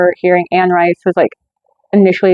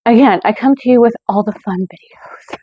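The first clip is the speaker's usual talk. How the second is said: dry, sarcastic aside whispered; 3 semitones higher than usual. Real, not acted. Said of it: "That was sarcasm".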